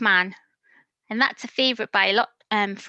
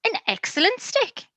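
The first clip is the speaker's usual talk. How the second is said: a lightly voiced eager dog, higher; playful dog voice, mostly higher; 3 semitones higher than usual. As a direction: chirp it like a keen puppy. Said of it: "barks the dog".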